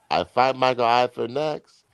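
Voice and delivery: put-on a boxer boasting in a hammy Eastern European accent; mock Eastern European accent. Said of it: "that was my Eastern European voice".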